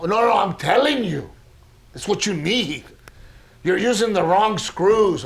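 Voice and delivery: lightly mimicked insistent father-in-law; Daddy Raymond. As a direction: correct him like a know-it-all dad. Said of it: "He talks like this".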